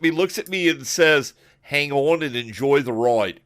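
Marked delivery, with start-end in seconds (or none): 1.6-3.4 put-on British accent. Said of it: "I can't do a good British accent".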